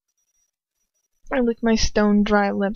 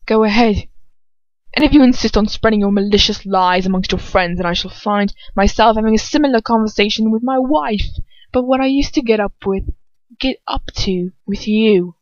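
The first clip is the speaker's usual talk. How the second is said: steadier retake; 4 dB louder than usual. Acted. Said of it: "do it all again".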